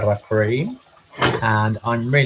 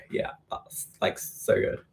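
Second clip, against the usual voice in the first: whispering; 8 dB quieter than usual. Real, not acted. Mouthful, whispered praise.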